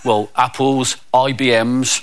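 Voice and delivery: low-pitched, sheepish confession; lightly voiced sheepish kid. Naughty pupil confesses to a visitor, sheepish. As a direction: own up like a sorry pupil. Schoolkid confesses under orders.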